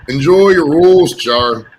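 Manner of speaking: slow, drawn-out "Enjoy your roast, Char" in Janice's way; mimicking Janice. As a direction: stretch out "roast" like Janice did. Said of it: "listen to the way Janice says roast".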